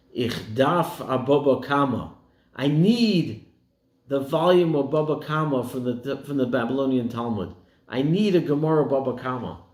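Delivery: a hint of fervent longing in Yiddish; burning intensity. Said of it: "with burning eyes".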